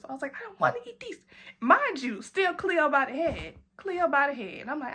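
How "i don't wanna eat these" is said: much higher pouting whine; whiny drunk refusal. Retold or imitated. Answering the friend, high pouting drunk whine. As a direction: pout it like a tipsy child.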